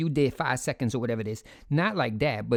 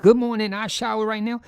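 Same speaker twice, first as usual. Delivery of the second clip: high, louder chirpy vlog hello; imitating a YouTuber opening a video, mock bubbly; mock YouTuber greeting; 6 semitones higher, 4 dB louder than usual. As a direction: lightly parody a cheery influencer. Mocking a YouTuber's video intro.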